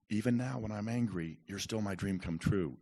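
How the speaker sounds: upset, not calm. Retold or imitated. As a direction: firmly push the words out while upset. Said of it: "I don't say it calmly 'cause I'm s-, upset".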